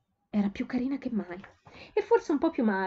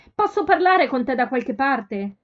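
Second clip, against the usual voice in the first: slow, much louder shout over a crowd; shouting back; 5 semitones higher, 8 dB louder, slower than usual. A narrator's reading. Sophie shouting to her sister over the crowd, loud and slow. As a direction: call across the noisy shop. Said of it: "urlò di rimando Sophie".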